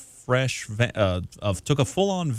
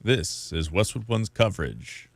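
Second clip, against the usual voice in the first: announcer voice. Retold or imitated. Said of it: "he's got that much more growly voice".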